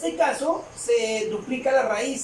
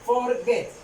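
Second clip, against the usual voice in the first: "Forget" parted into for and get; split into syllables. Shown as a demonstration. Teacher repeating the two-syllable example, "Forget" in two separate beats. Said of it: "consta de dos sílabas".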